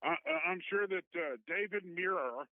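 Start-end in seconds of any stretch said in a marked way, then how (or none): 1.5-2.5 put-on news anchor accent. Caller mimics a TV anchor announcing tonight's lead story, anchor accent. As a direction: put on a measured Cronkite-Cosell sign-off voice. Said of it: "that's a very nice accent there".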